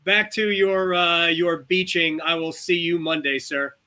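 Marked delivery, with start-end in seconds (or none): none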